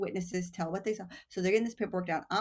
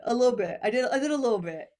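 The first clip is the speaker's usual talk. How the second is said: sheepish laughing repeat, a bit higher; 4 semitones higher, 5 dB louder, faster than usual. Retold or imitated. She jokes to the host about admitting it, laughing. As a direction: laugh through the confession.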